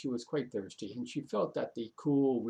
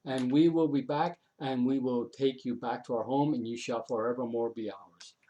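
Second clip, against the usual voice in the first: menacing threat; 6 dB louder than usual. Acted. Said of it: "But then she heard".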